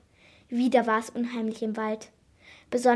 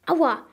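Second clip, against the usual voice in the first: sudden squeak of pain; 5 semitones higher, 7 dB louder than usual. A narrator's reading. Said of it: "quiekte Jackie plötzlich".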